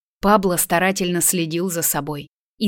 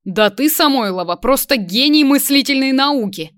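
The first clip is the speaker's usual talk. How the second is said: mocking amazement; 6 semitones higher, 4 dB louder than usual. A narrator's reading. Man taunts his former classmate, mockingly amazed. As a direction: exclaim it, climbing high and loud. Stunned classmate mocks her.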